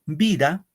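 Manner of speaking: "Vida" with VI lifted and stressed; teacher showing the accent on VI in "Vida". Shown as a demonstration. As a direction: lean on VI in "Vida". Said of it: "el acento va en vi".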